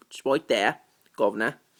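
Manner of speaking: put-on London Cockney accent with twang. Reading an old videotape reply card, the speaker slips into a Cockney accent. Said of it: "I'm talking with a Cockney accent".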